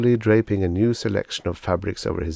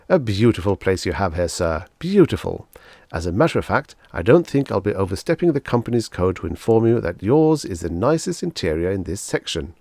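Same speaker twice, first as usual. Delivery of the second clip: louder, beaming salesman flattery; gushing salesman; 3 dB louder than usual. Acted. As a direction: lay the praise on thick.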